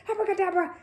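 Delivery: high, loud furious cry; angry shout. Acted. Mister Curry raging over his broken watch. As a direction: spit it out, beside himself with rage. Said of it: "beside himself with rage".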